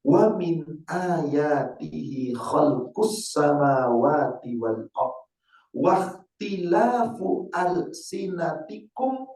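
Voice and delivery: slow, chanted Quranic recitation. Acted. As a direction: draw out each Arabic phrase like tilawah. (lantunan ayat Al-Quran yang pelan)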